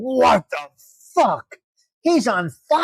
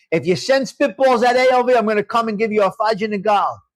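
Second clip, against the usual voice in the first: mock threat shout. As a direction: yell it like a stern warning. Threatening kids over spitballs.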